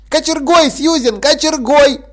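put-on high, eager kid insisting; insistent child. A narrator's reading. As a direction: keep pushing, high and excited. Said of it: "настаивал Гавейн". (Гавейн настаивает, высоко и возбуждённо)

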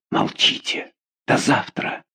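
urgent soft whisper; hushed whisper. A narrator's reading. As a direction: hush him before parting. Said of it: "сказала Маргарита". (шёпотом, торопливо)

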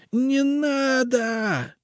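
very high, drawn-out terrified shriek; piercing shriek. A narrator's reading. Witch shrieks as the spirit raises hands. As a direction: scream for mercy. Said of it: "пронзительно завизжала".

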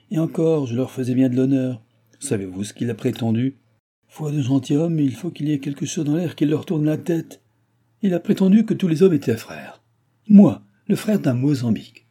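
high-pitched, emphatic scoffing; indignant old baron. Acted. Baron mocking his son's talk of brotherhood, indignant and scornful. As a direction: build to outraged disbelief.

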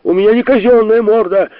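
high, loud indignant squeal; shrill squeal. A narrator's reading. Sharikov squeals his complaint at the professor, high and loud. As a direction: squeal it out like a wronged brat.

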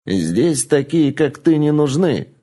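slow, harsh dismissal; curt snap. Acted. Madam dismissing the lab child, harsh and slow. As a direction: cut her off sharply. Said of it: "резко бросила старуха".

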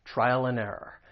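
AND shrunk to a bare "n"; "trial 'n error", linked smoothly; reduced AND. Shown as a demonstration. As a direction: weaken AND to an n sound. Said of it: "I'm gonna reduce it".

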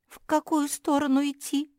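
lost and unsure, high-pitched; confused mumble. A narrator's reading. Injured girl asks the way, bewildered. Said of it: "растерянно пробормотала Жози".

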